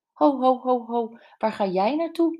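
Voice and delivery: high, loud "ho, ho" stopping someone; calling to halt. A narrator's reading. Andy stops his departing wife, calling out in surprise.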